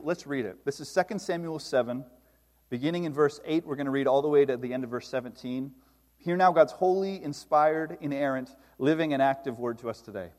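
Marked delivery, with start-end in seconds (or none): 6.2-10.3 solemn, measured liturgical call; formal scripture introduction. Acted. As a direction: announce the holy word with reverence.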